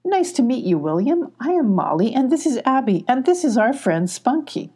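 high friendly kitten intro; a little cat making friends; cheerful kitten. Acted. Molly introduces everyone.

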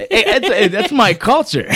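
laughing it out, high and loud. Real, not acted. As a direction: defend the joke while cracking up. Joking about his Puerto Rican dad.

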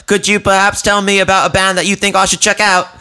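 high, polite awkward stranger impression; high mimic voice. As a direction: pipe it up like a socially awkward fan. Mimicking the odd guy.

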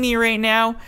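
high-pitched mock hysteria; freaking-out caller. Woman calling the police on a man, mock freak-out. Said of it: "just freaking out".

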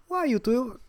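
laughing while quoting mom. Retold or imitated. Retold mom telling dad story.

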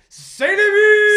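high, slow, loud goal call; announcer goal call. Retold or imitated. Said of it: "the announcer dude just goes".

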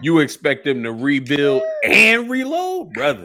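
loud, laughing disbelief; can barely get the words out for laughing; cracking up while mocking the roster moves; laughing through it. Real, not acted. Mocks the team owners while laughing.

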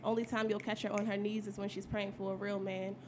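spoken-word performance; poem recital. Acted. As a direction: deliver it like a poetry slam.

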